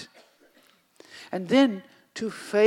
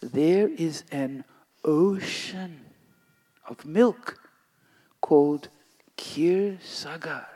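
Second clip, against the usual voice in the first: hushed and tender, slowing down; soft gentle voice; 4 semitones lower than usual. Acted. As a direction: soothe a child gently. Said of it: "in a soft, gentle voice".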